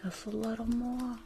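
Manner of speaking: lightly voiced school nurse, mostly whispered; a bored school nurse on lice check, half under her breath; school nurse character. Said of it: "still talking like the nurse".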